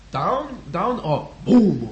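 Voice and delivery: mock German accent, halting words; hesitant German impression ending in a boom. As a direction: imitate a German guy searching for words. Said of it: "I'll be the German guy".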